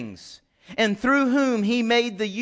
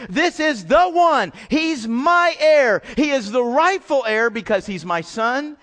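proclaiming God's words; 3 dB louder than usual. Retold or imitated. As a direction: announce it like a royal decree. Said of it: "God says".

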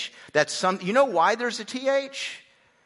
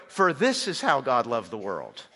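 reading, lower; 6 semitones lower than usual. Shown as a demonstration. Newer translation read out.

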